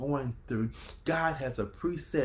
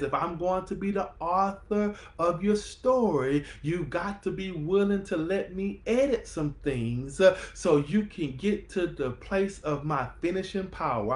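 fired-up telling; 4 semitones higher than usual. Acted. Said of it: "I'm gonna say that one more time".

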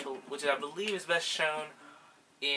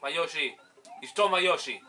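frustrated; 2 semitones higher, 5 dB louder than usual. Real, not acted. Yoshi stolen, frustrated shouts.

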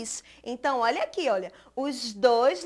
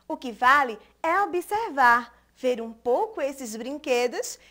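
poem recitation. Acted. Recites her poem to children.

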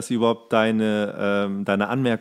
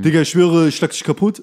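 imitating tough teen; 4 semitones higher, 6 dB louder than usual. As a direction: mimic a tough kid's threat, loud. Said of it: "wenn du so eine Mischung hast".

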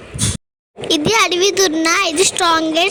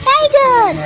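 higher, eager call of tiger; thrilled to spot the tiger; excited; 4 semitones higher than usual. Real, not acted. (ఉత్సాహంగా పులిని చూపిస్తూ)

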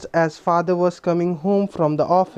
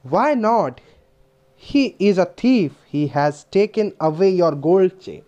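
put-on child protesting; 3 semitones higher, much slower than usual. Leela argues with the inspector, child protesting.

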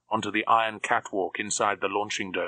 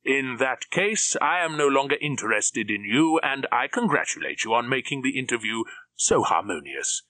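smug German villain; 4 semitones higher than usual. Acted. Drax dismisses Krebs.

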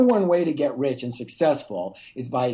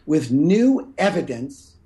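"new evidence" set apart, slow and deliberate; slow right down to land "new evidence"; key words "new evidence" spoken slowly for emphasis; stress on EVIDENCE; slower than usual. Real, not acted. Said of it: "everyone listen to this word".

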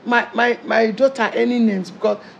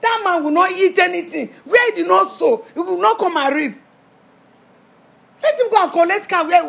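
raised-pitch, forceful decree; indignant; 4 semitones higher than usual. Acted. Mother forbids car for daughter's father, indignant. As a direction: lay down the law, indignant.

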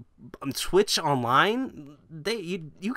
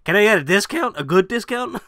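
mock pleading; 7 semitones higher, 6 dB louder than usual. Mock begging for a discount.

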